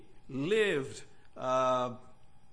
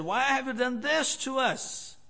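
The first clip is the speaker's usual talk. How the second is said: mild mock scolding; 6 semitones higher than usual. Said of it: "his mother had just scolded him and said".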